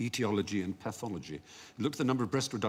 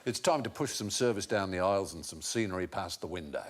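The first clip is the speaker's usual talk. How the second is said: airline announcer; 5 semitones lower than usual. Retold or imitated. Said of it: "He said".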